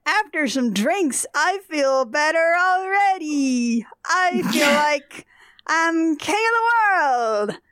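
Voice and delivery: put-on slow slurred drunk voice; town drunk. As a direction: slur it out slowly like a drunk. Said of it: "He is slurring his speech".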